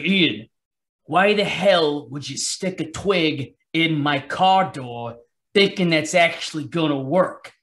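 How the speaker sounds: put-on slow, exasperated dad in a light Italian New York accent; a hint of an Italian New York dad scolding, drawn out. Son imitates his angry father scolding him in an Italian New York accent, slow. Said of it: "now I'm gonna do an imitation of my father".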